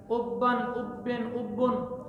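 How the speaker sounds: slow drill. Shown as a demonstration. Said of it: "دو دفعہ با پڑھنی ہے".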